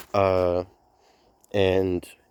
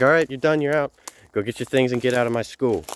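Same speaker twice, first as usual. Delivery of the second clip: principal ordering him out; 3 semitones higher than usual. Retold or imitated. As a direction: bark it out like a fed-up principal throwing a student out. Principal kicking student out.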